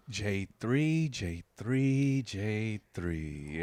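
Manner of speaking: a guy paging someone down the hall; mock announcer calling out J three.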